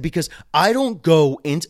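getting loud. Retold or imitated. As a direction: push back hard at the boss. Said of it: "and then I, like, got loud".

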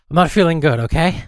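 irritable snap. Acted. Withdrawal from hold music.

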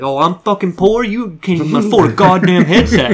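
mild mock complaint; imitated griping gamer. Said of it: "thing he was bitching about".

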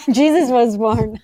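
laughing through the line; giggling as it repeats. Real, not acted.

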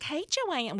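high, sing-song "Hey, Joanne"; mock friendly classmate calling her name; chirpy classmate greeting. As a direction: greet her like an eager high-school kid.

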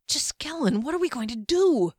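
high-pitched, urgent pleading; frantic. A narrator's reading. Fennel asks the mage what to do, frantic and high. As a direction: urgently beg a companion for a plan. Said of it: "Fennel whispered frantically".

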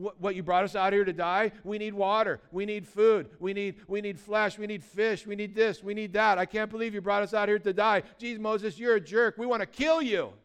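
loud, indignant grumbling; angry crowd complaint. Retold or imitated. Israelites yelling at Moses in the desert, loud and fed up.

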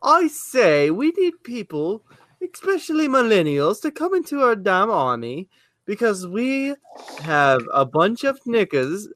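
put-on high-pitched, hammy English accent; bad put-on English gentleman accent. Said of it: "how to do an English accent".

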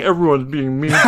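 quick, laughing whine; whiny character voice. Retold or imitated. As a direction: whine it like a sulky cartoon character. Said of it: "the big-butted character saying".

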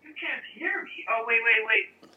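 distant, echoing hallway sound; talking from down the hall, away from the mic. Real, not acted. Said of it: "you're in the hallway".

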